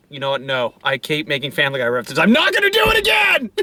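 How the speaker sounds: starts low, ends in a shout; building mock outburst. Acted inner voice building.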